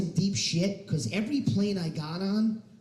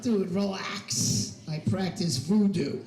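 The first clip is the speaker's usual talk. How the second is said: slow, unbothered dude; mock laid-back; slower than usual. Answering doubters about med school, slow casual reply. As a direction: drawl off the question casually. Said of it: "I'm like".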